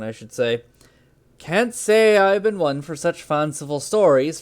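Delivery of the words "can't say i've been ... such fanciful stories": reading with a Norse accent; a light Norse accent, storyteller. Shown as a demonstration. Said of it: "I'm gonna try for a Norse accent".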